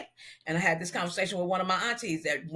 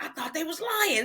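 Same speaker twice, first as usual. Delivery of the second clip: imitating her friend; 11 semitones higher than usual. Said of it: "he was like".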